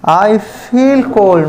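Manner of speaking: very slow, deliberate model sentence; slow correct example. Shown as a demonstration. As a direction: say it word by word for the class. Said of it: "तो ये हो गया आपका right". (धीरे-धीरे सही उदाहरण)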